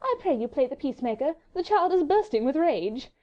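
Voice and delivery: high, lilting lady's plea; sweet, musical. A narrator's reading. Marguerite asking for a peacemaker, sweet musical voice. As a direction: coax him sweetly, voice lifted. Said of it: "in that sweet, gentle, musical voice".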